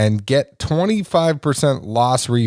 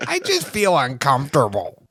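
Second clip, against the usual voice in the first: imitated character; 2 semitones higher than usual.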